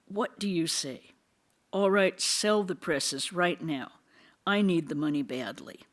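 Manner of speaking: loud, forceful roar building to the sell order; roaring like a lion. Acted. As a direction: thunder it out like a lion. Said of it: "roared like a lion".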